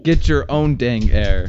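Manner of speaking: slow country drawl; country accent. Retold or imitated. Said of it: "the person says".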